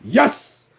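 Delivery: very high, loud "Yes!"; excited cheer. Retold or imitated. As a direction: celebrate the text out loud. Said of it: "I was like".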